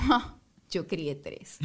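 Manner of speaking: imitando a una madre que se ríe; risa burlona. Retold or imitated. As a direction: soltar una risita y decirlo muy lento. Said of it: "mi mamá se rió y me dijo". (con risa socarrona, arrastrado)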